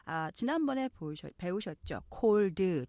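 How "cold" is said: "cold" said as one syllable, no vowel added at the end. Shown as a demonstration. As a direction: clip "cold" to a single syllable. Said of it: "이음절이 아니라 cold". ("cold" 한 음절로)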